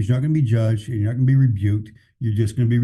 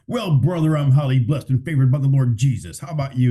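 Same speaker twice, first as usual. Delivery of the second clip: higher, hammed-up holier-than-thou pastor voice; mock pious pastor; 3 semitones higher than usual. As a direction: mimic a preachy pastor showing off his blessings. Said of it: "Does that dude really talk like that?".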